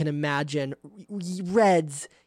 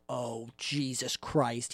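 frightened; 7 semitones lower, 10 dB quieter, slower than usual. Acted. Gift daddy frightened.

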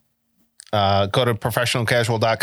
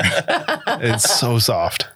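very slow mock tender; much slower than usual. Repeat, slower.

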